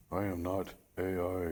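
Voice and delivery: flat robotic AI voice; robot monotone voice. Shown as a demonstration. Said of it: "real monotone voice".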